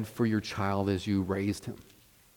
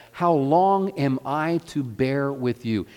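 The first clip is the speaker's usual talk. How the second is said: exasperated; 3 semitones higher, 3 dB louder than usual. Retold or imitated. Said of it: "in his exasperation".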